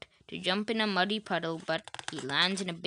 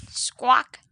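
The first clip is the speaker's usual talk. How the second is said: high, loud parrot squawk; 7 semitones higher, 10 dB louder than usual. Acted. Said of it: "says Polly".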